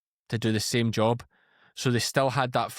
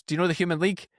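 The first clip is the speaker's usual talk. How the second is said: put-on old school cop; 6 semitones higher, faster than usual. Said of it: "he turns round to her and goes".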